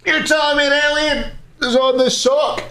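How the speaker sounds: high, squeaky disbelief; incredulous. Real, not acted. Streamer showing chat a sock, squeaky and incredulous. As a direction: ask it in a squeaky, put-on high voice.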